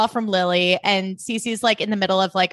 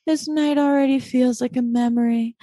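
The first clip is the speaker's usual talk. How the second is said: lightly voiced wistful Blair; 3 semitones higher than usual. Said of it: "And she's like".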